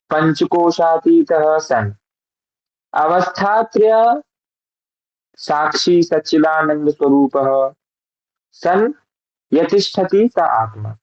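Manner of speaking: slow, careful Sanskrit chant-like reading; mantra recitation. Shown as a demonstration. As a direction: recite the verse syllable by syllable. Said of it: "ये जो पिछला मंत्र था इसको एक बार पढ़े". (धीमा, स्पष्ट संस्कृत पाठ)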